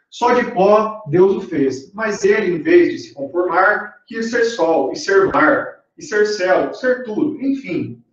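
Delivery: measured poem reading, slow in places; poem recitation. Acted. Teacher reading a short poem to students, measured recitation. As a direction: recite the verse with lingering line ends.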